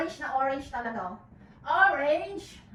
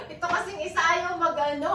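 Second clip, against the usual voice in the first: laughing aloud; 4 semitones higher than usual. Real, not acted. Laughing while unboxing.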